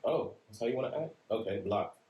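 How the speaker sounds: sarcastic high "oh", then flat "block"; dismissive sarcasm. Retold or imitated. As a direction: brush them off. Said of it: "So you just be like".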